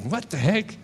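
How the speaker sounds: mock-offended inner protest; retold indignant anger. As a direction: act out a touch of wounded anger. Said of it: "I got all angry".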